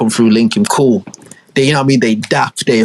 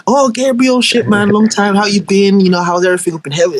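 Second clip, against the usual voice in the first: cheerful greeting; 6 semitones higher than usual. Retold or imitated. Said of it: "Isaac greeting Gabriel".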